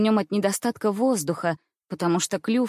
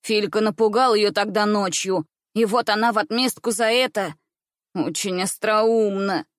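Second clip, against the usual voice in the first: usual speaking voice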